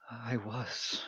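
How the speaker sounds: soft, slow, sighing fallen deity; weary ancient goddess. Acted. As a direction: speak with faded ancient sorrow. Goddess voice continues.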